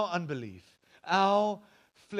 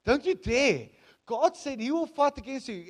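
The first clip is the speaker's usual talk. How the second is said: loud, higher, forbidding; stern warning; 7 semitones higher, 7 dB louder than usual. Retold or imitated. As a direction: stop them cold with a stern warning. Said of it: "Moses says to them".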